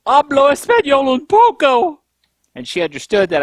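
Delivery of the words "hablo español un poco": put-on hesitant Spanish with a heavy English accent, pitched up high; broken Spanish. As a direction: sound like an unsure American trying out Spanish. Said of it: "And I was like".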